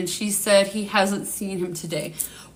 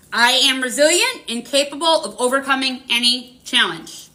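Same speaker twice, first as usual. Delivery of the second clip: affirmation recital; 3 semitones higher than usual. Shown as a demonstration. Reader leading the live chat in repeating an affirmation, measured mantra. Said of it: "We're gonna do it one more time".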